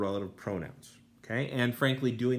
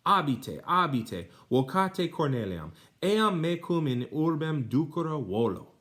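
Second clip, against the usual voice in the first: mock angry orders; 7 semitones higher, 4 dB louder than usual. Mistress sends slaves away.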